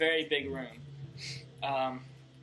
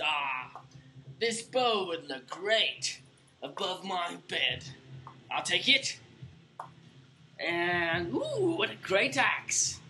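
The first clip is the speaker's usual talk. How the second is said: greedy boss admiring loot; 3 semitones higher, slower than usual. Acted. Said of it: "he says".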